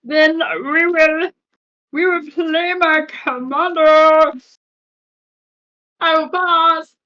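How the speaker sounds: a whiny mock voice, almost crying; funny voice. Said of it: "This will be my funny voice".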